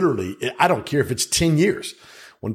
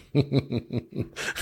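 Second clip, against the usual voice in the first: evil scientist laugh; 8 dB quieter than usual. Real, not acted. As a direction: cackle like an evil genius. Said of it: "That sounded like a damn evil scientist laugh".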